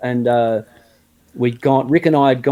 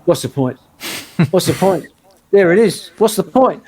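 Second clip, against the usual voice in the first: resigned mutter rising to a higher, exasperated wail; despairing mutter building up; 3 semitones higher than usual. Retold or imitated. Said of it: "I'm just sitting there going".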